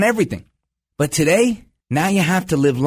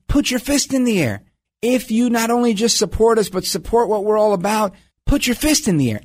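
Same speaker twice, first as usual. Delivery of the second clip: imitating protest leader; 3 semitones higher than usual. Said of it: "he has, like, a gay accent".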